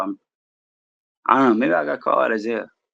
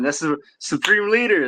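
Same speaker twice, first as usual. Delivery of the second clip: a bit higher, livelier restatement; more energy; 5 semitones higher than usual. Real, not acted. Correcting himself to the host, with more energy. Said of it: "There's that energy".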